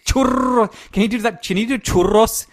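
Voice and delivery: high, laughing excitement; high, excited. Real, not acted.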